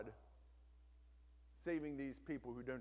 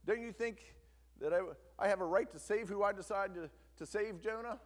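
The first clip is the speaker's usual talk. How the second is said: indignant Jonah; 4 semitones higher, 5 dB louder than usual. Acted. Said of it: "Jonah says".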